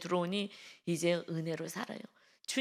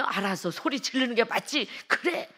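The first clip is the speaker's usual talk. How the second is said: eager, raised-voice agreement; mock yelled assent; 3 semitones higher, 4 dB louder than usual. Preacher acts out someone giving in to the devil, mock yelling. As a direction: pitch rising into a loud amen. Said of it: "소리를 바락바락 질러대는 거야".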